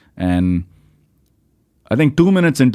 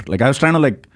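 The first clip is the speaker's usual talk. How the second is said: ordinary talk, nothing marked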